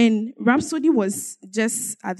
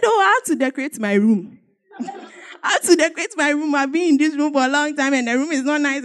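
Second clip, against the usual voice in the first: complaining; 4 semitones higher than usual. Retold or imitated. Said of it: "and I was complaining".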